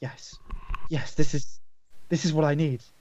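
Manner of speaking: quiet muttering, whispered under breath. Voicing a character running his hands over a gown: whispering to himself. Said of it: "he'll kind of whisper to himself".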